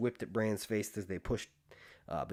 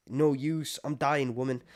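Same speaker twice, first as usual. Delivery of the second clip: higher, louder wry retort; smartass maester; 4 semitones higher, 4 dB louder than usual. Retold or imitated. Retelling the maester's sarcastic reply to the wildling woman, wry and raised. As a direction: toss it off like a sarcastic old man. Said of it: "Lewin's being a smartass 'cause he goes".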